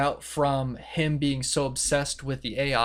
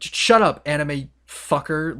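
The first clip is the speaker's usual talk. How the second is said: mock exasperation; 6 dB louder, slower than usual. Students interrupt the dying boy's farewell, mock exasperation. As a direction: cut them off in mock annoyance. Cutting off the dying victim's speech.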